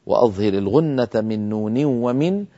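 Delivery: ترتيل بيت الجزري ببطء; أنشد البيت كما في المتن; إنشاد متن الجزرية. Shown as a demonstration. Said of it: "بقول إمامنا الجزري لما قال". (إنشاد متن تجويدي مرتّل)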